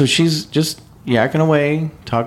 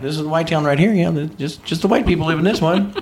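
imitated Southern tour guide, pitched up; sweet Southern lady; 5 semitones higher than usual. Sweet Southern lady giving a tour of towns, imitated high voice. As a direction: point it out sweetly, in a higher voice. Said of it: "sweet Southern lady".

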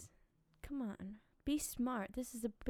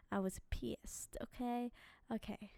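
whispered admission; 5 dB quieter than usual. Real, not acted. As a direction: whisper it like a confession. Confessing after a rant.

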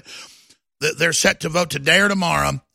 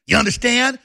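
"understand" pushed hard and higher, demanding; hectoring "understand"; 4 semitones higher than usual. Pretend. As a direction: press "understand" as a threat. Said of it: "I want that to be a friendly message".

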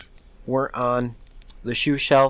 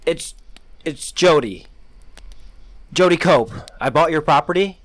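higher, louder panicked introduction; woman calling for help at dawn; frantic; 5 semitones higher, 5 dB louder than usual. A narrator's reading. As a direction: rush it out in fear.

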